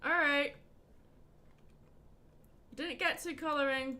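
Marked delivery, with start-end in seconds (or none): 0.0-0.5 pleased exclaim. Real, not acted. Drawing fixed, pleased exclamation.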